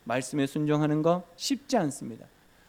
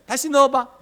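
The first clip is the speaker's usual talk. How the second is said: God's command; 9 semitones higher, 10 dB louder than usual. Acted. God commanding Moses.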